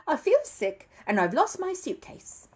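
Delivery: a bear who feels sick and has lost his case; lightly voiced worried bear; upset little bear. Paddington complains after the trick.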